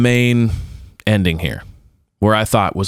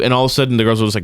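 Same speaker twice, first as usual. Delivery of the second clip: usual speaking voice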